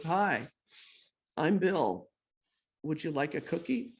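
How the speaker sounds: a touch timid, halting little offer. Retold or imitated. Timid newcomer holding out cookies to the producer, mildly shy. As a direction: offer it shyly, with gaps between phrases. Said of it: "in my little timid way".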